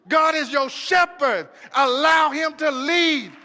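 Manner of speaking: call-and-response preaching, rising; full-force preaching. Acted. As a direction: drive it home to the congregation. Preacher repeating refrain at full force.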